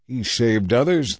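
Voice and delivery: slow, sneering; scoffing. Acted. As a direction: scoff at him. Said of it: "they scoffed".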